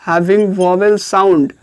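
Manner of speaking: very slow, each word separated; slow teacher dictation. Shown as a demonstration. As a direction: dictate slowly for notes.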